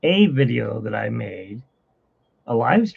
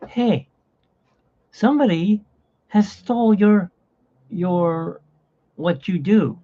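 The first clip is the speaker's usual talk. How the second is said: wife's excited alarm; 5 semitones higher, slower than usual. Retold or imitated. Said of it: "she goes".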